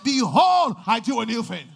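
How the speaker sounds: Behold thundered out loud; a sudden loud preacher's declaration; booming proclamation. Acted. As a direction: proclaim it to the whole church. Preacher building to climax.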